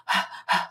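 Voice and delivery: imitated heavy breathing; breathless panting. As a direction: huff out a breath like he's winded. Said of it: "like out of breath".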